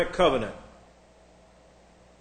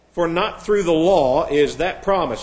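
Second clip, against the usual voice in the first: mock stilted quote; 4 dB louder than usual. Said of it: "Yeah, we talk like that all the time".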